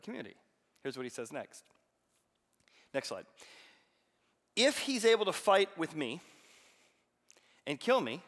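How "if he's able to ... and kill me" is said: loud, higher taunt; Goliath's challenge. Acted. Giant shouting his terms to the army, loud taunt. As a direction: call out the terms of the duel. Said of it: "cried out".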